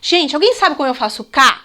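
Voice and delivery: asking the class Gente, alguém sabe como eu faço K, inviting; teacher asking class. Shown as a demonstration. Teacher to class, demonstrating the question. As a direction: ask like a teacher fishing for answers. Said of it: "é assim, ó".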